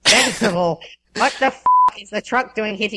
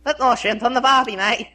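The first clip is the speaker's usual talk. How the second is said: higher, hammed-up Aussie accent; funny Australian voice; 4 semitones higher than usual. Shown as a demonstration. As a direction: do a comic Australian voice. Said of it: "do it with a funny voice".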